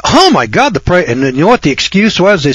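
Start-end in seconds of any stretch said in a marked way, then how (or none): 0.0-1.1 mock complaining shopper. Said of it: "you should have heard the people complain".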